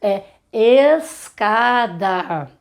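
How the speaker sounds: "escada" bem devagar, com E claro no início; pronúncia cuidadosa. Shown as a demonstration. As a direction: articule "É escada" sílaba por sílaba. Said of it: "Falamos de um jeito, escrevemos de outro". ("escada" silabado devagar)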